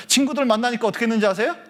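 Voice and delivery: normal talking voice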